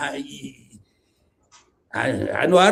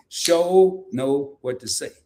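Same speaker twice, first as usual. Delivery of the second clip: Southern drawl copy; 2 semitones lower, much slower than usual. Shown as a demonstration. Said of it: "If you talk like me".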